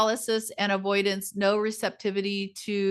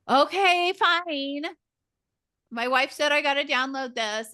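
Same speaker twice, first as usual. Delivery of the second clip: much higher grudging mock voice; reluctant husband; 5 semitones higher than usual. Imitating a husband forced by his wife, much higher and grudging. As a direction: sigh it out like a henpecked husband.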